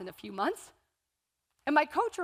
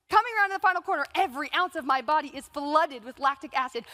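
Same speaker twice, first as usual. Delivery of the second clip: excited; 3 semitones higher, 3 dB louder than usual. Acted. Climax of race, excited retelling.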